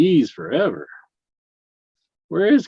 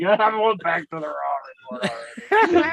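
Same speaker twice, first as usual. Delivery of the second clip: high mock voice; 10 semitones higher than usual. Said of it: "he's like".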